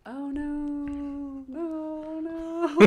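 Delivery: high soft dismayed no no; a touch of hammed-up dismay; mock sympathy. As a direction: coo in worried sympathy. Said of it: "I was just like".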